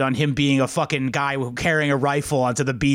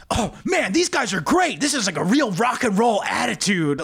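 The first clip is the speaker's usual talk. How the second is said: imitating a rock singer; 4 semitones higher than usual. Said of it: "the singer's clearly on coke".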